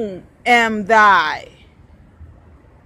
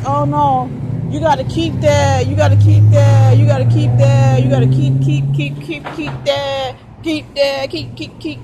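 rapid, louder nagging chant; mocking nagging crowd; 7 dB louder, faster than usual. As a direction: hammer the nagging repeats, fast and loud. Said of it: "And people are like".

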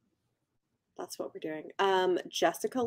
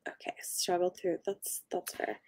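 whisper; 3 semitones lower, 10 dB quieter than usual. Real, not acted. Muttering to herself aside.

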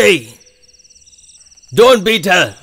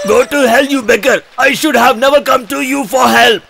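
indignant raised voice; angry retort. Acted. Customer refusing to return for help, angry retort. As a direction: curse them and storm off.

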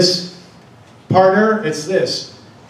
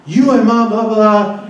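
higher-pitched mock teen retort; mimicked angry daughter; 4 semitones higher than usual. Daughter shouting back at dad, mimicked angry retort. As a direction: imitate a kid's griping, pitched up. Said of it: "So what does she do?".

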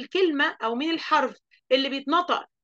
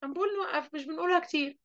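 much softer warning; soft reprimand; 3 semitones higher, 7 dB quieter, faster than usual. Real, not acted. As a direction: drop the voice to settle them. Teacher quietly scolding.

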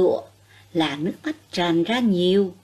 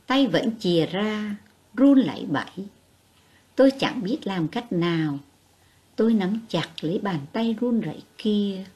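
gentle compassionate reading. A narrator's reading. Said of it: "giọng nhẹ nhàng, thương cảm".

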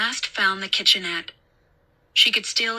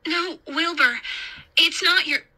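higher, urgent character voice; raised pitch, cut off mid-sentence; urgent babysitter; 9 semitones higher than usual. A narrator's reading. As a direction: try to get through to a panicking child. Babysitter answers the screaming boy.

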